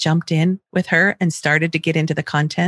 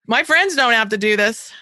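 put-on whiny child; 2 semitones higher than usual. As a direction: drag it out like a sulky kid. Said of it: "actual things that she said to me".

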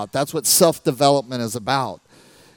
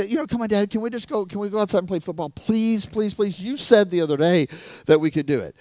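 put-on higher pleading child voice, a touch rushed; a little boy nagging his dad; begging kid; 6 semitones higher than usual. Kid begs dad to play.

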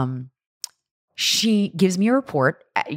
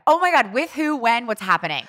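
higher, eager burst of questions; excited; 6 semitones higher than usual. Real, not acted. Friend thrilled at Mexico news, excited. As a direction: pepper her with thrilled questions.

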